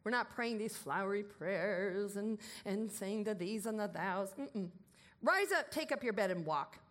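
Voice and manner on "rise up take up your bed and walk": commanding call. Retold or imitated. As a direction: order it with full authority. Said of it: "Command it".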